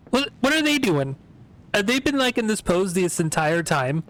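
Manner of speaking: real astonished question; incredulous surprise. Real, not acted. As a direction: blurt it out in disbelief. Startled by posing characters.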